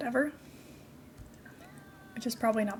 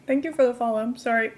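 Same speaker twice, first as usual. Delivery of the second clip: talking with chocolate in mouth; mouth full; 6 dB louder than usual. Real, not acted. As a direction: speak through a mouthful of chocolate. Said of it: "I've got chocolate in my mouth".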